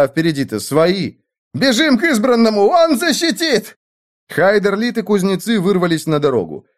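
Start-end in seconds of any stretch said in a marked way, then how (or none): 1.5-3.8 panicked shriek. A narrator's reading. Servants fleeing in terror, high panicked cries. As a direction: shriek that they're surrounded.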